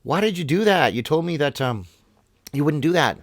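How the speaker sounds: a stung frog crying out in shock; dying frog. Retold or imitated. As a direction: plead in betrayal, voice pitched high. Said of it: "And the frog is dying, and he says".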